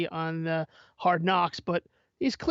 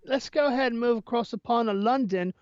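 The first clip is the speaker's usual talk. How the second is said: playful put-on Cockney Irish lilt; sportscaster hamming a Cockney Irish accent; a loose Cockney Irish accent, half British; mock Cockney Irish accent; 2 semitones higher than usual. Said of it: "more of a Cockney Irish accent".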